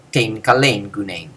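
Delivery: slow, low, level Greek phrase; same low tone. Shown as a demonstration. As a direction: keep the whole phrase down at one pitch. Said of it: "said with the same low tone of voice".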